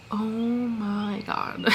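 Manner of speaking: long drawn-out, stunned gasp of awe; awed oh my God. Retold or imitated. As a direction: let it hang, slow and amazed. Stunned by the twist ending.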